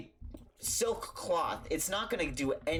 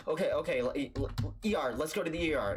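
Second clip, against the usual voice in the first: hurried, mildly panicked stammer; freaking out; faster than usual. Retold or imitated. Dad freaking out about the ER, flustered. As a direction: stumble over it in mild panic. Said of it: "freaking out too".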